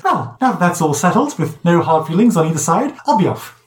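high, prim protocol droid; a high, officious droid voice; droid piping up. Acted. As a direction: pipe up, fussy and proper.

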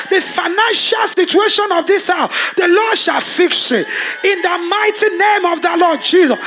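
fiery sermon declaration; full-force preaching. Acted. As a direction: proclaim it over the church with rising force. Declaring over the congregation.

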